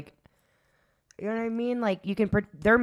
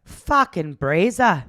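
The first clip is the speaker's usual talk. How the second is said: put-on Australian accent; 5 dB louder, slower than usual. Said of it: "say it with the accent".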